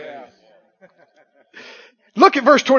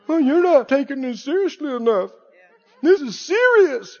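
mock scolding; 2 semitones higher, 4 dB quieter than usual. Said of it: "Unbelief will even get mad".

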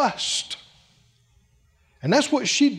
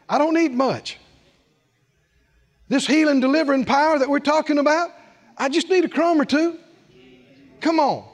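higher-pitched, earnest acted plea; woman's humble plea; 6 semitones higher, faster than usual. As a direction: voice a woman asking for very little. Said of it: "She, she's saying".

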